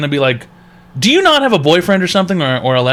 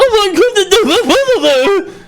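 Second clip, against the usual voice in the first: high, slow exasperated whine; much slower than usual. Acted. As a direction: drag it out in disbelief. Host exasperated with caller.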